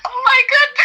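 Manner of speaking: very high, shrieking with laughter; excited shriek. Real, not acted. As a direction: squeal with delight. Caller thrilled to get through.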